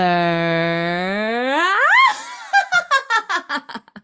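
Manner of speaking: a high, loud party whoop-laugh. Acted. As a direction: end on a big celebratory holler. DJ signs off with a whoop.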